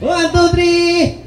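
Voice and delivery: drawn-out high count; slow countdown. Acted. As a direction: stretch each number out slowly. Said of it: "game host countdown".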